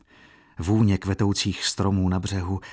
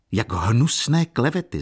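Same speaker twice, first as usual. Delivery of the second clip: loud, higher cry of disgust; young man cries out against the count's gossip; outraged exclamation; 6 semitones higher, 6 dB louder than usual. Acted. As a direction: spit out the disgust. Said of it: "zvolal Jan Maria".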